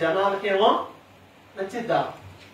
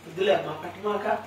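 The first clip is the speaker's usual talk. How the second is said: put-on quiet, gentle coaxing of a child; mild mock gentle plea to a son; soft pleading; 4 semitones lower, 7 dB quieter than usual. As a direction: plead softly with no firmness at all. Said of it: "అని చెప్తూ ఉంటే వాడికి అర్థం అవ్వదు".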